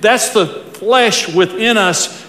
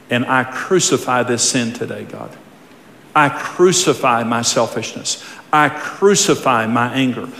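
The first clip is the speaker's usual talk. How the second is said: earnest repentant prayer; 5 semitones lower than usual. Shown as a demonstration. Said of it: "Here's what God wants to hear from you".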